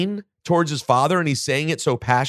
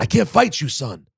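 a hint of a pleading wrestler father; Rey impression; 3 semitones higher than usual. For a co-host asked for it, a light Rey voice. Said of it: "You do a great Rey impression".

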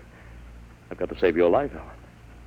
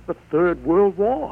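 voice breaking; 10 semitones higher, 5 dB louder, slower than usual. Acted. Father pleading, voice breaking.

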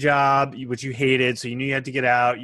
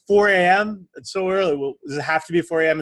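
shocked complaint; 5 semitones higher than usual. Acted. Student whining about early hour.

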